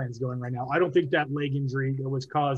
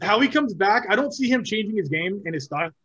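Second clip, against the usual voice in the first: talking through hiccups from water; hiccuping between words; 4 semitones higher than usual. Real, not acted. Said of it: "Sorry, I'm hiccupping from water".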